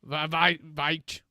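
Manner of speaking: lightly voiced mall Santa, a bit scratchy. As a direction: play a grumpy smoker Santa, only slightly put on. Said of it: "It's a very scratchy voice Santa".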